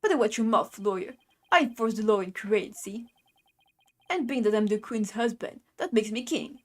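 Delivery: lightly voiced Brooklyn tough guy; Brooklyn accent. Justice minister to a nosy lawyer, light Brooklyn accent. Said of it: "a Brooklyn accent".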